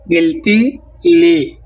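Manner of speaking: গিলতিলি drawn out very slowly, each syllable apart; teacher dragging out গিলতিলি so it can be copied; very slow demo. Shown as a demonstration. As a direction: stretch গিলতিলি out for the class. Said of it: "তাহলে বলবো".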